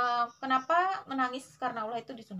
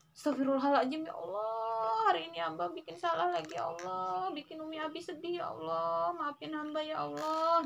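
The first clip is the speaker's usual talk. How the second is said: higher, pleading prayer with stretched "ya Allah"; pleading child's prayer; 4 semitones higher than usual. Shown as a demonstration. Mother shows how a child should cry to God, higher and pleading. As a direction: beg forgiveness like a sorry child. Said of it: "Nah, gitu ya".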